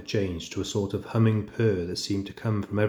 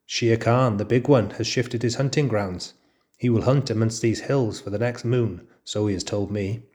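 spiteful. Acted. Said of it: "and then he said spitefully".

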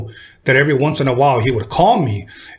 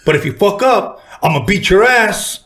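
mock threat from a hothead brother, higher; 5 semitones higher than usual. Brother threatens the DJ who wants to spin, mild mock anger. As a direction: hothead big brother warning the stranger, half-played, higher. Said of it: "being a hothead, always said".

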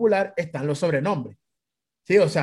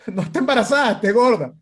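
loud, higher-pitched retort; indignant correction; 4 semitones higher, 4 dB louder than usual. Retold or imitated. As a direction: set him straight emphatically. (réplica indignada, fuerte y aguda)

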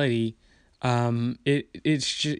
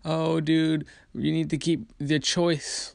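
mock objection; 4 semitones higher, slower than usual. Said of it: "they think, like".

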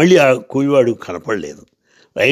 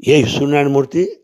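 mildly raised, rising challenge; loud challenge; 4 semitones higher than usual. Retold or imitated. Porter loudly challenging the two officials, mildly raised. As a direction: toss out the name as a bold, slightly louder question. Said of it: "నిలబడి గట్టిగా అన్నాడు".

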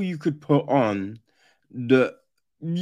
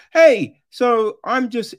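camp greeting; 6 semitones higher, 7 dB louder than usual. Retold or imitated. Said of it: "they're just like".

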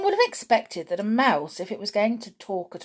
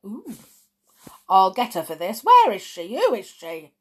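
angry demands; 7 dB louder than usual. A narrator's reading. Bruno vowing revenge on witch.

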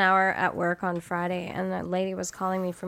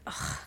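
mock groan; 11 dB quieter than usual. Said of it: "she was just like".

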